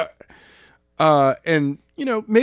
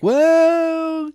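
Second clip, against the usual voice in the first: cocky warning; 3 semitones higher, much slower than usual. Retold or imitated. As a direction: lay down a slow taunting threat. Heroine's power unleashed.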